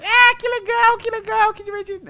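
very high, sarcastic mock cheer; sarcastic falsetto. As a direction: fake excitement in a squeaky voice. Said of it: "é protagonista de anime".

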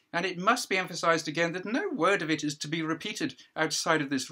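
judge addressing a hearing. Acted. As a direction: play the judge holding court, a pitch up and projected.

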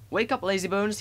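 high cheeky wake-up call; whistling engine. A narrator's reading. Thomas waking sleepy Gordon, high whistling call. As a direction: pipe it up brightly, like a whistle. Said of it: "he whistled".

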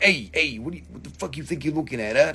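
mock tough-guy chicken, fast and rising; a hint of a bird picking a fight; angry chicken. Voicing a chicken squaring up to the viewer, mock tough. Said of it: "Now I'm an angry chicken".

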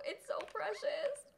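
slow high coo. Real, not acted. Cooing at puppy.

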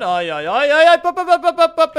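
high, loud squealing "ai, ai, pop"; falling squeal. Real, not acted. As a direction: yelp while tumbling down. Falling while building, squealing. (kiljuva pudotus)

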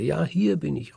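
high, loud call from far away; calling back. Acted. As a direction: shout back across the hall. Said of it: "ruft er".

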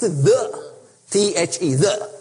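the spelled out T H E, then said again; teacher spelling out the, letter by letter; stress on the. Shown as a demonstration. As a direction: spell it out and hit the. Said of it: "don't remove the "the".

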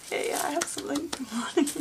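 high, loud, quick burst breaking into laughter; real giddy excitement. Real, not acted. Crafter overwhelmed by a friend's gift, giddy with excitement. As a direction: blurt it out brightly, then laugh.

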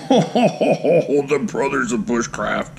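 slow, drawn-out laughing delight; delighted laughing reveal. Real, not acted. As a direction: reveal it slowly through a gleeful chuckle. Gloating reveal of prized knife.

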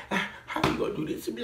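high, whiny mock teacher voice; mock pleading teachers. Vlogger imitating teachers upset she may leave, high mock pleading. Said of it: "They were like".

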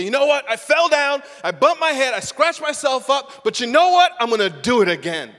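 put-on high, loud, determined child; a child's voice. A child who fell down insists on trying again, high and loud. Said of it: "they get up again and say".

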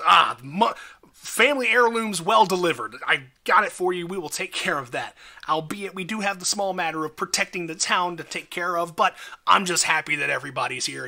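lightly voiced eager character; a touch of bouncy delight; bouncing with excitement. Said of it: "again, bouncing up and down".

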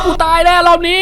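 high panicked cry that he is dead; panicked yell. Real, not acted. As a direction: shriek it, sure you're finished. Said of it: "ขอโทษนะครับที่โวยวายเสียงดัง".

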